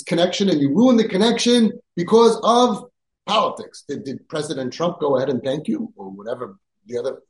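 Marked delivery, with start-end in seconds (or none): 0.0-3.8 much higher, louder, pleading exasperation; rising outrage. Retold or imitated. Rabbi pleading with parents not to cut connection, exasperated. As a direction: climb in disbelief to the peak.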